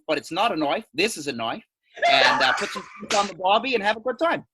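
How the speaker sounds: mock Australian accent. Beach forecast for Australian mates, in a mock Australian accent. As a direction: play a cheeky Aussie weatherman in a loose Australian accent. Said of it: "it's actually an Australian accent".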